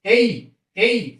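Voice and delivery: एई stretched very slowly, vowel gliding; drawn-out vowel demo. Shown as a demonstration. Teacher modelling the diphthong for students, very slow and drawn out. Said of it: "ऐसे".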